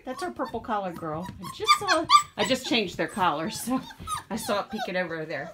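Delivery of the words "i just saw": excited squeak. Real, not acted. Excited spotting puppy.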